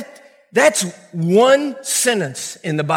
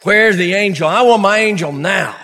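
whiny demand; 4 semitones lower than usual. Retold or imitated. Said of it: "and you're saying".

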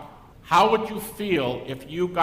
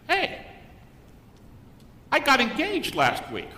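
mock excited student; 12 semitones higher, 3 dB louder than usual. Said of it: "he said".

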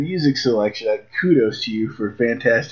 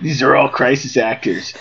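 laughing. Real, not acted. Laughing at the impression.

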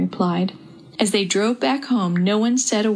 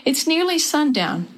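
higher calling voice; 7 semitones higher than usual. Acted. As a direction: call the family together. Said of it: "Dad called".

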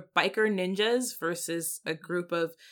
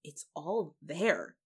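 awed realisation; 5 semitones lower, 4 dB quieter, much slower than usual. Retold or imitated. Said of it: "you're like".

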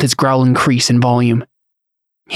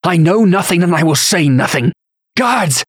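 high-pitched indignant call, rising to a cry; shouting for guards; 6 semitones higher than usual. A narrator's reading. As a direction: call out in outraged alarm. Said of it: "the man shouted".

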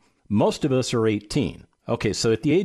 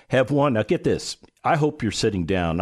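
ordinary delivery

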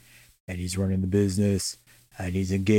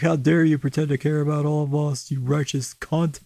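higher-pitched retold tirade; mock indignant outburst; 5 semitones higher than usual. Woman telling off her concerned friend, mock indignant. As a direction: go off on him, half in jest. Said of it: "she just goes off on him".

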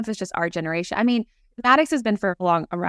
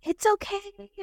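much higher, tossed-off "It's okay"; dismissive brush-off; 12 semitones higher, 4 dB quieter, slower than usual. Retold or imitated. Host contrasts a dismissive parent with a much higher, breezy brush-off. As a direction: throw away "It's okay" lightly and high. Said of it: "or it wasn't like".

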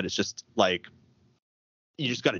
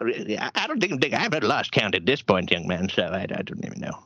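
grandpa voice. Acted. Answers as Grandpa when asked his age.

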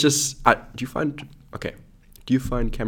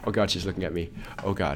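giggly prank whisper; 5 semitones lower, 6 dB quieter than usual. Real, not acted. Sister watching them through window.

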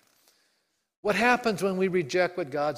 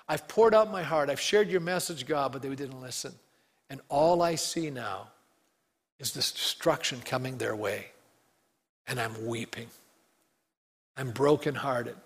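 weeping; 3 semitones lower than usual. Acted. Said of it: "Jeremiah is weeping 'cause he's going".

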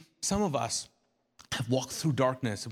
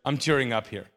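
flustered listener; 5 dB louder, faster than usual. Retold or imitated. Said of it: "And you're like".

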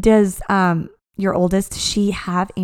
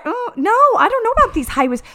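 high-pitched dubious protest; mock reluctance; 12 semitones higher than usual. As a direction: act out wary distaste for a new trend. Acts out old doubt about fashion.

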